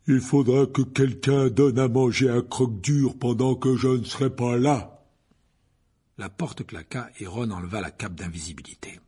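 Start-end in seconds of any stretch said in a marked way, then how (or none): 0.1-5.1 louder announcement. A narrator's reading. Hagrid loudly asks someone to feed Fang. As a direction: call it out for the hidden boys. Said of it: "d'une voix forte".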